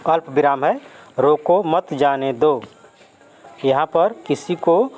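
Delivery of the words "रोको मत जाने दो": रोको set apart, then मत जाने दो together; pause after रोको. Shown as a demonstration. Teacher shows someone being stopped from going, pause after रोको. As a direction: stop briefly after रोको, run मत जाने दो as one. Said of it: "रोको के बाद कॉमा दिया हुआ है".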